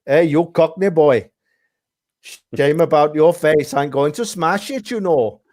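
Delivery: lightly put-on Welsh accent, barely shifted; a hint of a Welsh hard man threatening. Retelling a big Welsh bloke threatening him, light Welsh accent. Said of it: "are you sure he was Welsh or Indian".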